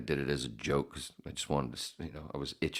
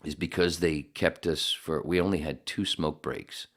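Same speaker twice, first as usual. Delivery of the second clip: talking around a cigarette; words past a lit cigarette; cigarette in mouth. Real, not acted. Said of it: "because I'm smoking a cigarette right now".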